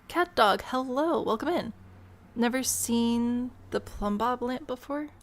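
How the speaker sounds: excited hello to pets; pet-greeting voice. Real, not acted. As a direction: coo a welcome to the cat and dog. Greeting her pets in game.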